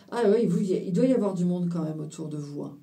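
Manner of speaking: muffled behind a hand; talking through your fingers; hand over mouth. Real, not acted. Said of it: "je parle avec la main devant la bouche".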